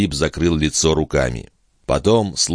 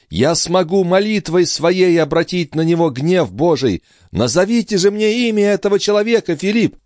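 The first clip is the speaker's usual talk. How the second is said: put-on much higher, desperate young woman's plea; pleading heroine; 13 semitones higher than usual. A narrator's reading. Distraught sister begs Philippe for the name, high pleading voice. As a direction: beg him, voice climbing up.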